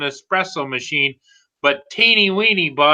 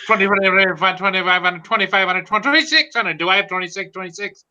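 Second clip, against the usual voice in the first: auction chant; auctioneer voice. Retold or imitated. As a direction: call bids like an auctioneer. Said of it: "to sound like an auctioneer".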